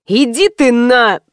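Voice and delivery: barked, slow. Acted. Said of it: "рявкнул парень".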